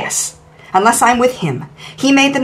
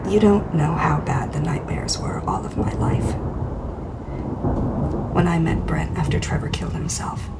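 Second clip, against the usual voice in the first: dark whisper behind you; 4 semitones lower, 9 dB quieter than usual. Acted.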